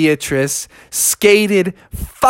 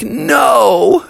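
frantic no; 8 semitones higher, 3 dB louder than usual. A narrator's reading. Froggy can't find Beatrice.

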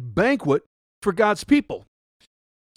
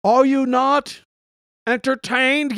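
raised challenge to the crowd; yell; 7 semitones higher, slower than usual. Shown as a demonstration. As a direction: call it out to the listener. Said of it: "I could yell out".

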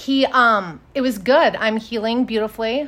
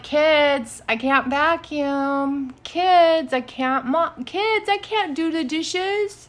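high, whiny, drawn-out plea; mock helpless whine; 5 semitones higher, much slower than usual. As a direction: ham up the invalid to get out of chores. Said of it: "I'm really using this to my advantage".

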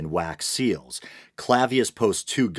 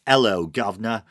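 lightly put-on Cockney greeting; a hint of Cockney, mocking the apostle's accent; 3 semitones higher, 4 dB louder than usual. Reviewer mocks the apostle's Cockney: light Cockney accent. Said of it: "speaks with a thick, almost Cockney accent".

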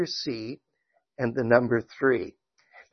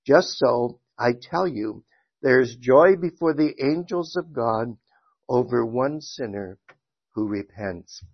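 measured, emphatic Bible reading aloud; scripture reading. Acted. Teacher reads the parable to his Sunday school class, scripture reading. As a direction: read the verses out clearly to a congregation.

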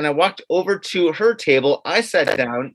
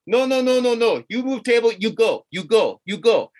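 higher, curt mock waiter brush-off; dismissive waiter; 3 semitones higher than usual. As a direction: wave him away like the waiter. Waiter dismissing him again.

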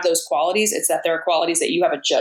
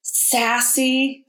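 mock director voice; 8 semitones higher, much slower than usual. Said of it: "they're like".

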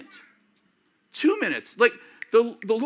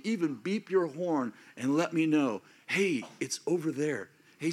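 prayerful; 2 semitones lower than usual. Shown as a demonstration. Speaker models a roadside prayer.

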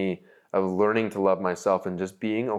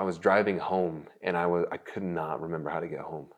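getting emotional; 2 semitones lower, 4 dB quieter than usual. Real, not acted. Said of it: "I'm gonna get emotional".

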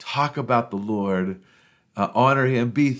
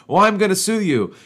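God's raised, higher voice; indignant threat; 9 semitones higher, 5 dB louder than usual. Acted. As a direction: threaten him loudly, offended. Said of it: "And so God says".

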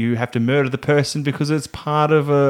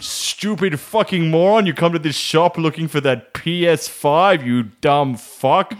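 mock insult; 4 semitones higher, slower than usual. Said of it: "They're like".

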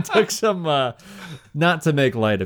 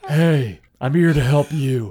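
Tina voice, a bit louder; 2 semitones higher, 3 dB louder, slower than usual. Acted. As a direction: push Tina's voice a notch louder. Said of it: "That's more Tina".

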